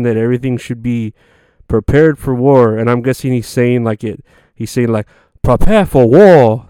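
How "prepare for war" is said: slow, loud mock East Asian accent. Vlogger mimicking Kim Jong-un in a mock East Asian accent. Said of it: "my, uh, accent of an Asian person".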